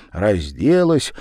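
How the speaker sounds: ordinary delivery, nothing marked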